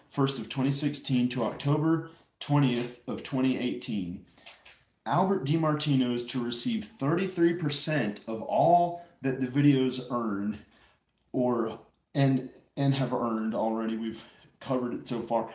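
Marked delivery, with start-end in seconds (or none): 5.0-14.0 reading a contract. Real, not acted. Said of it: "So, so read it".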